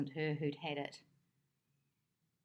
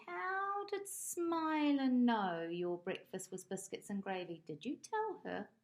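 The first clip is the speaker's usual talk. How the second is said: bird voice; 5 semitones higher than usual. Acted. Green Bird voiced by narrator.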